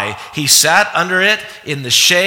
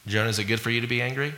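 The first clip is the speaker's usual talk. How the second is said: much softer, quick, kindly asking; soft gentle question; 5 semitones lower, 11 dB quieter, much faster than usual. Shown as a demonstration. Preacher voicing God's gentle question to Jonah, softly. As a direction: ask it quietly like a patient father. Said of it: "You don't see in".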